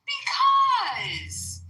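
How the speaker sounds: whiny shout. Pretend. Childish retort.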